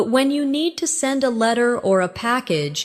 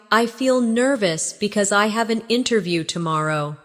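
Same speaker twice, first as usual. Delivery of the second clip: practice take. Shown as a demonstration. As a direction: give it a little more time for learners. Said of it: "Practice these with me".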